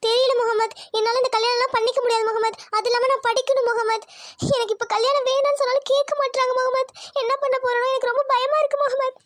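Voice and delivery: mildly tearful pleading; acted distress, a touch of tears. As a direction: plead as if close to crying. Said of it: "அழுகாத ஐஷு".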